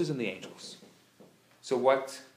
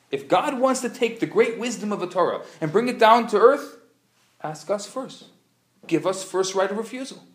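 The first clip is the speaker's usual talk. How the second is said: angels demanding; 5 semitones higher, 3 dB louder than usual. Retold or imitated. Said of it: "the angels say".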